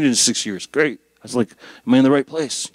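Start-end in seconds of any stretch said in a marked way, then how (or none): 1.9-2.7 louder self-questioning; wondering aloud. Retold or imitated. Visitor checking he has found the church, wondering aloud. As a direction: ask yourself aloud, in mild disbelief. Acts out doubting himself on arrival.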